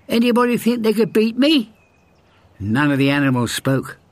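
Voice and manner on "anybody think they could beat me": high, bragging hare voice; boastful hare. A narrator's reading. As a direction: brag like the cocky hare. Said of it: "said the hare".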